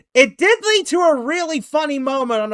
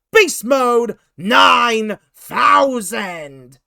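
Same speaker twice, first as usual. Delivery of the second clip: ring announcer; 2 semitones higher, 7 dB louder, much slower than usual. Pretend. Host introduces co-host, announcer-style.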